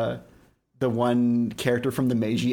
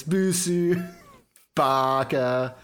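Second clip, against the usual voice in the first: mock insult bit; 3 semitones higher, much slower than usual. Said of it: "Yeah, that sort of bit".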